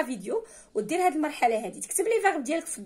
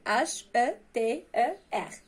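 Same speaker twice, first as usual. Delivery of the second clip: slow spelling; much slower than usual. Shown as a demonstration. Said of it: "سهل".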